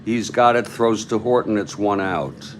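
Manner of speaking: brisk baseball commentary; live play-by-play. Acted. Announcer telling listeners of a throw for one out, play-by-play. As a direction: call the play as it happens.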